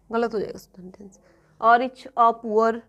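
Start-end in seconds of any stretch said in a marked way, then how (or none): 1.6-2.7 very slow, word by word; slow dictation of a mistake; slow wrong example. Shown as a demonstration. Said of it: "नहीं बोल सकते आप".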